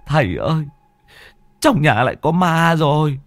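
panicked babbling. A narrator's reading. Panicked son greets the masters.

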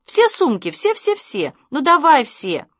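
an eager high-pitched shout. A narrator's reading. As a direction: clamour to carry every bag. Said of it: "кричали они маме".

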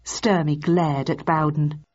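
plain reading voice

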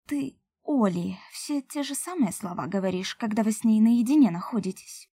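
plain reading voice

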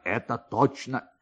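ordinary delivery

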